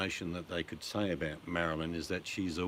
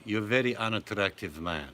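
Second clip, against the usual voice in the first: sitcom quote; 3 semitones higher, 6 dB louder than usual. Retold or imitated. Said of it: "she would say".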